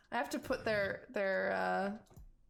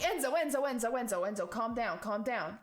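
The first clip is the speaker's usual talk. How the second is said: calming a friend; 3 semitones higher than usual. Acted. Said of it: "and it's like".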